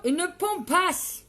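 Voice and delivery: put-on German accent. Streamer swearing she will be stunning, mock German accent. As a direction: stretch it in a hammed-up German accent. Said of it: "Je fais l'accent allemand".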